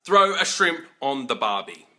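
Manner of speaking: a touch of hammed-up Aussie on Throw; lightly mock tourist-ad line; stereotype Aussie. Mocking the stereotype, lightly hammed-up Aussie. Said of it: "these stereotypes stick".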